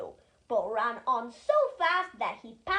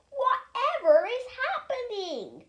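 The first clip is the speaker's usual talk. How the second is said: surprised trucks; 9 semitones higher than usual. A narrator's reading.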